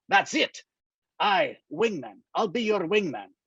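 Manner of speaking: put-on a light Scottish lilt for the old friend Angus, dryly amused; lightly voiced wry Scotsman, ribbing his pal; teasing Scottish friend. Old Scottish friend needling Daniel, light dry Scottish lilt.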